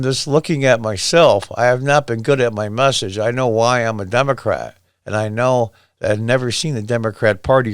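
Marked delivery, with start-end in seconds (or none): none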